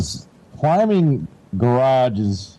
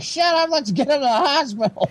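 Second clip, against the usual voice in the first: higher, snappy mock mom telling dad off; impatient mom; 13 semitones higher than usual. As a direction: cut him off like a hurried mother.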